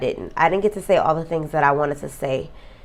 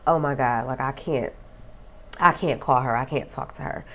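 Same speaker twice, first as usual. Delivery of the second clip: real tears, fading softer down to a whisper; fighting tears; 4 semitones lower, 6 dB quieter than usual. Real, not acted. Remembering she can't call her late friend, tearful whisper. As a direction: let the voice break and sink away. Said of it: "I'm trying not to cry".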